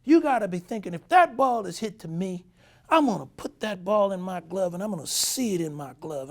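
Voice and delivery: high, loud coaching rant. Retold or imitated. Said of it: "he says".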